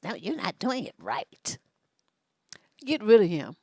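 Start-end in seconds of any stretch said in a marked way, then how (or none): 0.0-1.6 lightly voiced scolding boyfriend, quieter; a hint of a condescending partner correcting her; critical boyfriend. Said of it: "versus someone like this".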